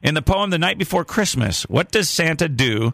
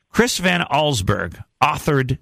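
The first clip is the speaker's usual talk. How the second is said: slow and clear; slower than usual. Shown as a demonstration. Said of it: "Now listen closely".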